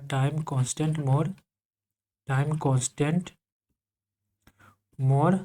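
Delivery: slow, word by word for notes; slow dictation. Shown as a demonstration. Teacher dictating to class, slow and even. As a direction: spell it out so students can write. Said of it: "यहाँ लिख लो".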